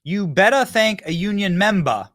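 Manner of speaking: high, loud, slow imitation of a fake Southern accent; mock Southern accent. Host quotes the candidate in Detroit, hammed-up Southern accent. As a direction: stretch it out in a parody Southern accent. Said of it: "brings out her accents again".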